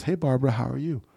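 high, smug mock jerk voice on the phone. Investor's son sweet-talking Barbara, smug mock jerk. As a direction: play the slimy buyer calling the old lady. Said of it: "like, a complete asshole".

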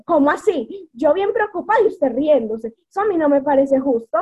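mock indignation at mom; indignant complaint. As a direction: scold mom for laughing. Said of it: "yo la miraba feo".

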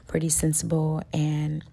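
an apologetic loud burst, pitch climbing; passionate loud voice. Shown as a demonstration. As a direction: get loud from passion, not anger. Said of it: "gets high-pitched and I get loud".

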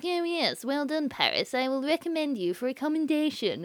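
mock-indifferent crew member; subdued, uninterested praise, lightly put on; bored, lackluster. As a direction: imitate someone going through the motions, softly. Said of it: "everyone looks bored".

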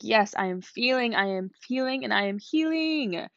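lightly acted celebration, pitch climbing; celebrating. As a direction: build it upward phrase by phrase, as a little cheer. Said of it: "be, celebrate it. Be like".

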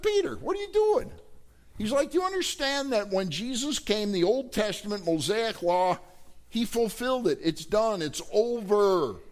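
high, exasperated scolding of Peter; Paul rebuking Peter, high and exasperated; upset rebuke. Acted. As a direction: scold him like a frustrated friend. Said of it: "Paul gets upset with Peter".

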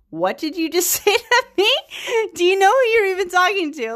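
how dare you, in disbelief; incredulous outrage. Retold or imitated. Dolores confronts Charlotte over her offer, shrill with outrage. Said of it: "She's kinda like".

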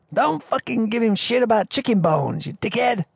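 high, heated shouted rebuke; mock angry defence. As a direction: tell Al off like furious Gordon. Gordon defending him angrily.

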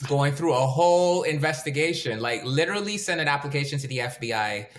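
playful teasing. Real, not acted. Teasing exaggeration.

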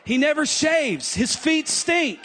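hammed-up fed-up spouse listing faults; a wife griping about her lazy husband, half laughing; mock complaining wife. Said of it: "You're like".

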